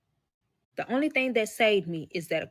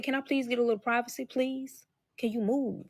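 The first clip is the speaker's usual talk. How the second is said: higher, quick, softly pleading request; polite but uneasy plea; retold polite request; 4 semitones higher, 3 dB quieter than usual. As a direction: ask politely for some space, pitched up a little. Asking him for privacy.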